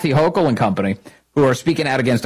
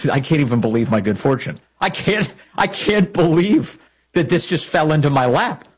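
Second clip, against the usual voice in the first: gleeful disbelief; 4 semitones higher than usual. Retold or imitated. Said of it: "you're going".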